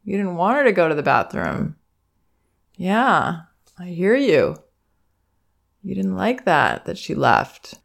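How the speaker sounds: put-on teacher soothing a crying toddler; acknowledging teacher. Shown as a demonstration. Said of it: "All I say is what I'm getting from the child".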